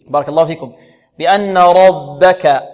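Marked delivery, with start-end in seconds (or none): 1.2-2.6 slow "ربك" with a light, unemphatic ب. Shown as a demonstration. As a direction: draw out "ربك", keeping the ب thin. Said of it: "والباء مرققة". (ترقيق الباء في "ربك" بتمهل)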